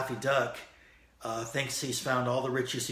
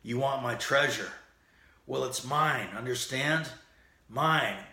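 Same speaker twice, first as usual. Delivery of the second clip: angry Daffy Duck shout; 3 semitones higher, 4 dB louder than usual. Retold or imitated. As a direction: shout to keep him off the treasure. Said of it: "slams the lamp down and shouts".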